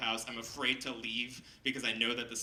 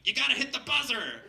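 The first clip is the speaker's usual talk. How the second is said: high, loud holler to someone nearby; mock impatient shout, pitched way up; calling out; 11 semitones higher, 6 dB louder than usual. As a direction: imitate a kooky passerby yelling advice. Bearded passerby calls out advice.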